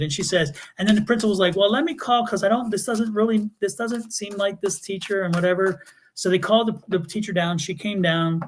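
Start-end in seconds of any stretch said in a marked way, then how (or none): 1.6-5.8 higher-pitched, halting official stalling; retold hesitant principal. Principal doubting mom's complaint, hesitant stalling. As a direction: imitate a principal talking round it.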